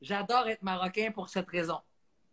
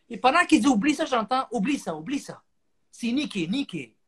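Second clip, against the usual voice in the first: higher, repeated like an echo; a mild mock echo on the line; echoing phone; 6 semitones higher, 4 dB louder than usual. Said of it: "J'ai de l'écho".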